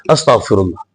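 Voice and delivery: low, soft, dismayed murmur; murmured astaghfirullah. Real, not acted. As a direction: breathe it out in pious dismay. Pious dismay at wrong translation. (धीमी आवाज़ में अफ़सोस भरा अस्तगफिरुल्लाह)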